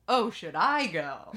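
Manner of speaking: put-on timid boyfriend taking the hint; lightly voiced unsure boyfriend; mildly hammed-up confused boyfriend. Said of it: "the Sebastian character says".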